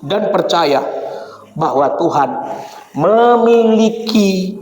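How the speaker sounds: fervent call to prayer, slowing down; preaching. Acted. Pastor calling the congregation to prayer, slow and fervent. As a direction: urge the church to pray, drawing out the words.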